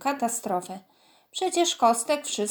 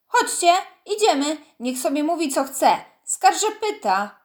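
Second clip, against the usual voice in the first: angry huff; 5 semitones higher, 5 dB louder than usual. A narrator's reading. Baśka huffing at Kostek, leading friends away angrily. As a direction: turn up your nose and sneer the name. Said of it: "fuknęła gniewnie".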